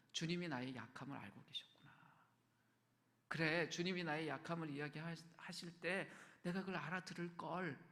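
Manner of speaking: 작게 가라앉힌 베드로의 혼잣말; 후회하는 속말. Acted. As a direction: murmur it inwardly, with mild regret. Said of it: "속에서 뭐라고 했을까". (후회 섞인 나직한 혼잣말)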